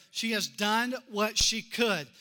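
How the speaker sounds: She has done what she could, done hit hard. Shown as a demonstration. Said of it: "Look at these next few words".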